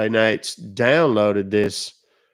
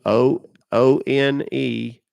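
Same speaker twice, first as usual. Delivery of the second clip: slow spelled-out letters; dictating; much slower than usual. Shown as a demonstration. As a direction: read each letter carefully. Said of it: "read it back to me".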